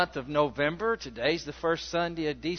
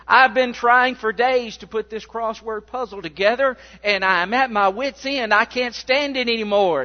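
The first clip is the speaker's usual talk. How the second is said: retold mother at her wit's end, a bit louder; louder, frantic old lady in a retold story; exasperated mother; 4 semitones higher, 5 dB louder than usual. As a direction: play the fed-up mom near tears. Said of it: "exploding, steaming, hot, upset".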